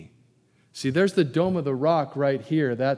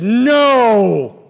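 a flat, loud, final no; louder, harder refusal; more emphatic no; 6 semitones higher, 11 dB louder than usual. Retold or imitated. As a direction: slam the door shut with one loud word. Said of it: "more emphatically said".

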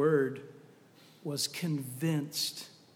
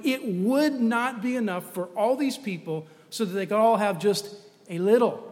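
higher, louder, building insistence; exasperated explaining; 3 semitones higher, 5 dB louder than usual. Acted. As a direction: spell out how impossible it is. Philip's exasperated reply acted out.

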